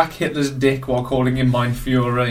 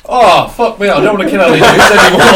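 mock Hitler; 4 semitones higher, 8 dB louder than usual. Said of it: "he's had to go".

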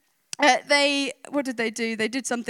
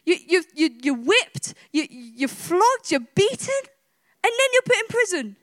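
worked up over imagined injustice; mock indignation; 3 semitones higher than usual. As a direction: pile up each outrage, pitch rising. Imagining injustice that would leave him fuming.

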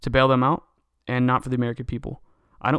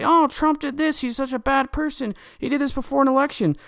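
mocking CNN anchor; 11 semitones higher than usual. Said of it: "C N N's gonna say".

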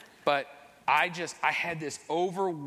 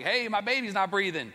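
retold panicked yell, raised and high; 6 semitones higher than usual. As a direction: call out for help in alarm. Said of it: "so I just started yelling".

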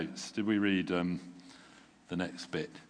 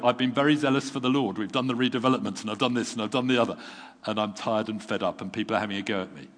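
loud, pressed complaint, speeding up at the end; fed-up outburst; 3 semitones higher, 6 dB louder, faster than usual. Retold or imitated. The pastor quoting his own journal to God, a loud fed-up outburst. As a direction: vent it all out, tired and fed up.

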